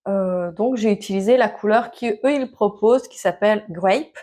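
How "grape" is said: English word in a French accent. Real, not acted. Knitter names a dye shade to viewers, French accent. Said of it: "Excusez mon accent".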